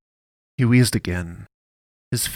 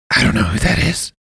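louder but unhurried priest voice; unbothered, easy denial; calmly; 2 semitones higher, 7 dB louder than usual. A narrator's reading. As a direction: priest calmly lying with a gun at his chin. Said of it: "he said calmly".

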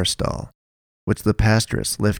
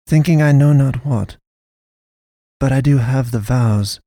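solemn pastoress; 4 semitones higher, 3 dB louder than usual. A narrator's reading. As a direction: confess her doubts carefully. Pastoress explains her vow.

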